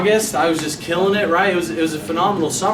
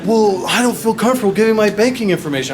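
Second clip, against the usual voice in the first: hesitant customer; 6 semitones higher, 4 dB louder, faster than usual. Retold or imitated. Customer voiced hesitating at sale.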